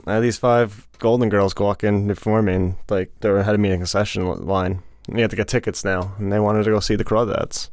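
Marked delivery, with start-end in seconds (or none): 3.2-4.8 sleepy slurred words; slurred speech. Real, not acted. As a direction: slur the words, half awake. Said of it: "you slurred a couple of your words".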